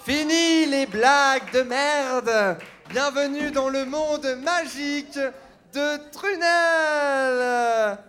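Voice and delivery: slow, high announcer welcome; bright squeaky sing-song welcome. Acted. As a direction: stretch it out like a theme park host. Mickey costume announcer welcome.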